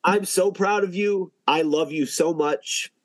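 emotional. Real, not acted. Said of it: "I'm getting emotional too".

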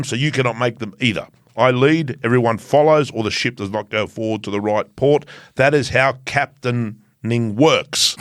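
lightly voiced pompous captain reading orders; mock captain. Reading the rider's team memo to listeners as a pompous captain. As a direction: read the memo as a stiff self-important captain. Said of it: "Sean Connery doing Russian".

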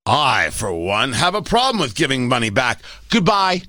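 a hint of a stuck-up elitist; elitist snob. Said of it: "Oh, you elitist snob".

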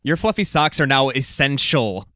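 high, slow outraged disbelief; mock outrage at silly demands; incredulous rant. Real, not acted.

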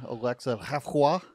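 slowed, put-on French accent. Host naming a French Rebel News figure, put-on French accent. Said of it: "Go French".

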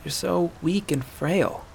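slow, soft pity; softly, slowly, with the rage ebbed away; almost tender. Acted. Aela to the doubled-over hunter, almost tender. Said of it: "almost tender now".

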